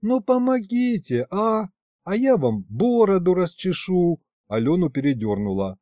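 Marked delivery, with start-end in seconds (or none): 0.0-4.2 голос Алёны, уговоры. A narrator's reading. Алёна уговаривает призрака.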